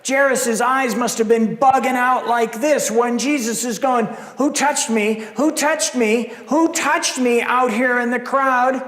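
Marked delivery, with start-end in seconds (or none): 4.4-7.4 insistent question. Acted. Jesus asking, rising each time.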